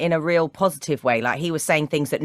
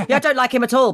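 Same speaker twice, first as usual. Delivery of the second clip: laughing; 6 semitones higher, 4 dB louder, faster than usual. Real, not acted. Laughs while admitting dislike.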